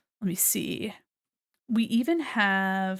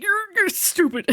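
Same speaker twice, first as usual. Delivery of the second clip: high-pitched mock heckler; mocking internet troll; 10 semitones higher than usual. Imitating a random person online insulting an artist, mocking. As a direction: jeer like a random online hater. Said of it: "some random fucker on the internet being like".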